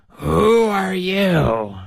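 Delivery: high, slow sheep-like bleat; bleating old woman. Acted. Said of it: "and she bleated".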